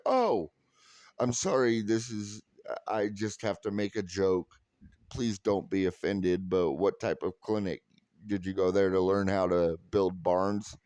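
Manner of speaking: sheepish apology before repeating the barn joke; apologetic joking. Retold or imitated. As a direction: say sorry first, then sneak the joke back in gently. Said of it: "I said".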